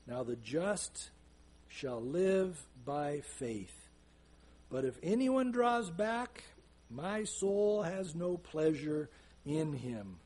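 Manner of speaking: slow, weighty reading of the verse; scripture reading. Acted. Preacher reading Hebrews to the congregation, slow and solemn. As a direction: let each word land slowly.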